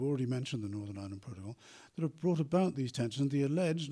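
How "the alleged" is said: alleged pushed up higher and louder; stress on alleged. Real, not acted. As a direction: lean hard on the word alleged. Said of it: "I stress the word alleged".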